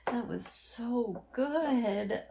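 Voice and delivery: slow, breathy moan of pleasure. Acted. Lover moaning to partner, slow and drawn out. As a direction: draw out each word like a satisfied moan.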